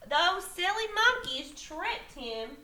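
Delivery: expressive storybook reading with lifted stresses; story read to children. A narrator's reading. Teacher reading a picture book to young children, animated storytelling. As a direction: read it aloud, drawing out the big moments.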